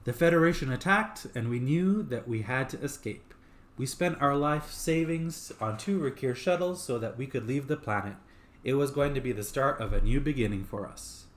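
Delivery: lightly voiced woman; a hint of a fiancée recalling their life together; female voice. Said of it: "Female voice".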